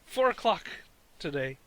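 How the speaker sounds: a hint of a TV weatherman; recalling the walkie-talkie prank, lightly voiced weatherman; news weathercast voice. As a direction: read it lightly like a forecast. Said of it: "like the news weathercast".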